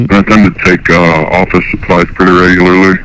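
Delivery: caller voice through a pitch-changing harmonizer; electronically disguised phone caller. Real, not acted. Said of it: "so his voice is disguised".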